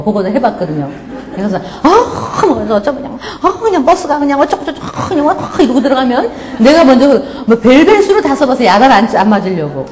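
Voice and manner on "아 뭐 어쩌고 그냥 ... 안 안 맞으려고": mock indignant rant. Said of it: "내가 들어가면서 화를 내는 거".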